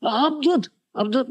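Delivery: high, mock-tearful wail; tearful complaint. Crying wife complains to her husband about Avadhut, plaintive wail. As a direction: imitate a wife's plaintive lament. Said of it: "his wife was crying".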